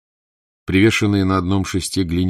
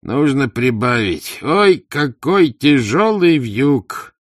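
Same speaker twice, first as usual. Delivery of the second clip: loud, drawn-out wail over a heavy load; theatrical groaning; groaning complaint; 8 semitones higher, 7 dB louder, much slower than usual. A narrator's reading. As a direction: moan slowly and loudly, higher on the cry. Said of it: "простонал бездельник".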